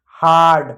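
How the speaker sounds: हार्ड with a held आ, falling; long आ sound. Shown as a demonstration. Teacher answering own question, long आ in हार्ड. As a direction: stretch the आ in हार्ड. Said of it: "आ पढ़ा, तो क्या पढ़ा?".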